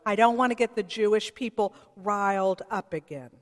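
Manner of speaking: a touch of a fretful governor; anxious self-protection. Retold or imitated. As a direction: rush it like a nervous politician covering himself. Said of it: "to save his political hide".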